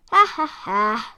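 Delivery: taunting fake laugh; mocking laugh. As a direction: laugh at the wolf to tease. Pig mocks the wolf.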